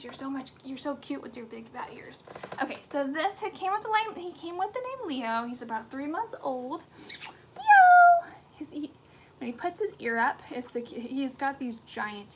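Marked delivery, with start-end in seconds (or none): 0.0-2.2 soft whisper of fond praise. Real, not acted. Owner whispering fondly to her puppy about his ears. 7.5-8.3 very high, loud cat meow; mock meow. Owner imitating her cat with a very high, loud meow.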